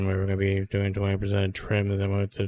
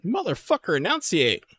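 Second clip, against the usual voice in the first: much higher fed-up yell; mock outraged yell; 10 semitones higher than usual. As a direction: snap at the mumbler to speak clearly. Mocking the mumbling tutorial guy.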